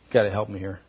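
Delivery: low, very quiet imitation of tearful begging; understated retold crying; tearful plea. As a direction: plead weakly, voice sinking almost to nothing. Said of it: "He's crying. He's going".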